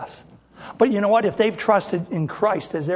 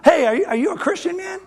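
eager greeting; 8 semitones higher, 3 dB louder than usual. Retold or imitated. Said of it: "and I go".

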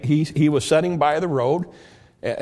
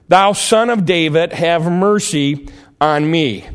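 louder still, calling out again and again; louder cry; 2 semitones higher, 5 dB louder than usual. Retold or imitated. Beggar crying louder after the crowd hushes him, loud. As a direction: push it out over the crowd. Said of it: "probably louder".

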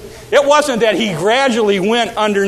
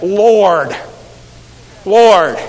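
called out louder; louder cry of Lord; 5 dB louder than usual. Acted. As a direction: call for help across the water. Peter crying out to Lord.

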